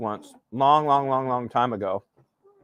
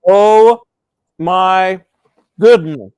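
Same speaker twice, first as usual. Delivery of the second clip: surprised exclamation; 6 semitones higher, 12 dB louder, much slower than usual. Real, not acted. Sudden exclamation on camera.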